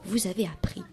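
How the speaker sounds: lightly voiced cheerful schoolteacher; a hint of a teacher calming pupils; reassuring teacher. Mademoiselle Faux-Folle reassures her nervous class before the exam, lightly voiced.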